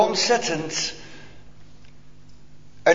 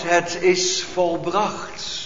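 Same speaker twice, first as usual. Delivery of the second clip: solemn cry; 4 dB quieter, much slower than usual. Retold or imitated. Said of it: "heeft uitgeroepen".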